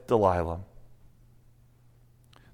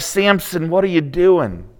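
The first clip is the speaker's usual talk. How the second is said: exasperated. Retold or imitated. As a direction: ask him what on earth he's doing. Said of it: "I'm like".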